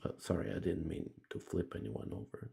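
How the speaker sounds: fast whispered apology; sheepish whisper. Real, not acted. Whispering an apology after flipping the animal over, sheepish whisper. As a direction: mutter a guilty sorry under the breath. Guilty aside after accident.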